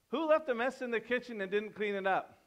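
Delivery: a light parent voice, a touch annoyed; mildly agitated parent. Retold or imitated. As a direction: ask like a parent mildly fed up. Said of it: "a little bit of agitation".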